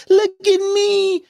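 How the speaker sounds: very high, drawn-out fake sob; mock crying falsetto. Host mocking emotional fans with a fake crying falsetto. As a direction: wail it like a hammed-up R&B singer. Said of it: "You could be that".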